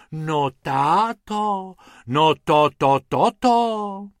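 slow, drawn-out gasping "táto"; amazed sighing. Acted. Amazed Mrs Pumpernagel sighs to her husband, slow and loud. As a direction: sigh in awe, stretching each word. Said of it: "v jednom kuse vzdychala".

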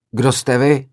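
heated roar. Retold or imitated. Filmmaker roaring heatedly at the hostile students, retold yell. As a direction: fire the question back at the hall. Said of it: "zařval jsem rozpáleně do sálu".

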